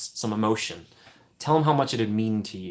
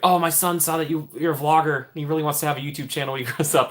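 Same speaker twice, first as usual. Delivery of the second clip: higher, eager parent voice; parent quoted; 5 semitones higher than usual. Retold or imitated. Retelling a parent in the park, higher eager voice. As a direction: play a proud parent gushing about a son. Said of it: "a kid will be like".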